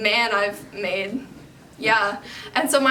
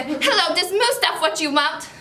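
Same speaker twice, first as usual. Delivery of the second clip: higher-pitched put-on phone character; Mustafa Al-Zakari; 5 semitones higher than usual. Girl answering debt collectors' calls in character, put-on voice. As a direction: answer the phone as a made-up man. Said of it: "So I have this character, his name is Mustafa".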